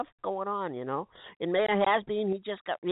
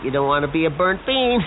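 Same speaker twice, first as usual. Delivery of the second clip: laughing at own joke; 7 dB louder than usual. Acted.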